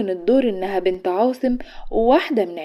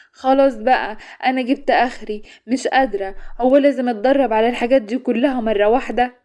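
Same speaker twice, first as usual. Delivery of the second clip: tired; 3 semitones higher, 4 dB louder than usual. Acted. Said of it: "وقالت بتعب".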